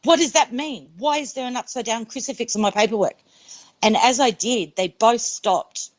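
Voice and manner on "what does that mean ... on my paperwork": higher-pitched urgent demand, no real shout; imitating calling out in alarm; retold yell. Patient calls out to nurses over her paperwork, mildly yelled. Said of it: "I yelled out to them".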